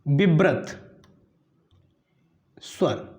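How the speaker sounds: drawn-out, separate words; धीरे और साफ़ उच्चारण; slow clear enunciation. Shown as a demonstration. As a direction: spell the term out slowly for students. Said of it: "वा से विव्रत".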